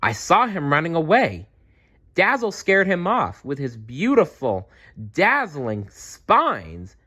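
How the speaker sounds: high, excited, slowing on dazzling spines; exclaiming. Acted. Maya exclaims to the Quetzalcoatlus about Dazzle, high and excited. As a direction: show off your friend proudly. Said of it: "exclaimed Maya".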